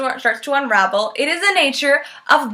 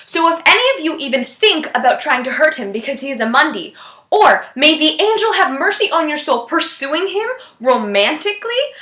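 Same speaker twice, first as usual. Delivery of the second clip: put-on Scottish accent. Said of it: "horrible attempt at a Scottish accent".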